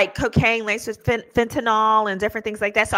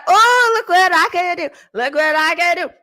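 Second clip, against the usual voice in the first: put-on show-off kid; 6 semitones higher, 5 dB louder than usual. Child parading round Granny's house, mock show-off voice. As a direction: imitate a kindergartner proudly showing off. Child showing off new trick.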